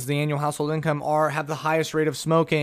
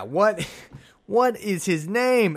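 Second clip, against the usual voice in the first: mock panic; 6 semitones higher, 5 dB louder, slower than usual. Repeating the panicked inner voice.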